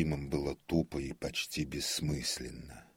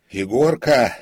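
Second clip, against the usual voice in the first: loud, high call for a servant; shout; 9 semitones higher, 17 dB louder than usual. A narrator's reading. Frightened comic calls his servant in the empty theatre, shouting. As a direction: yell out the name into the dark. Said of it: "крикнул он".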